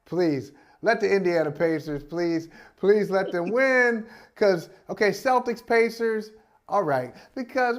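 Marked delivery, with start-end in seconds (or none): 0.1-4.1 mock pleading fan. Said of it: "You're rooting for".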